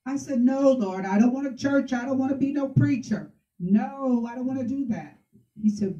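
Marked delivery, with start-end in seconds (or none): 0.4-5.2 higher-pitched, reluctant pleading; retold protest. Woman refusing God's call to preach, protesting. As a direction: push back, pitch raised. Retelling her refusal to God.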